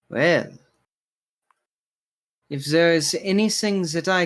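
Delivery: lightly voiced courteous barkeeper, measured pauses; humble bartender, obliging. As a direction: offer your service as a humble bartender. Bartender offers help in character.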